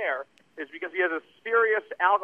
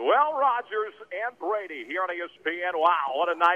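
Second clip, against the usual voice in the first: slow, drawn-out TV play-by-play sportscaster voice. Retelling walking up to people at a bar: imitating a play-by-play announcer. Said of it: "start doing play-by-play".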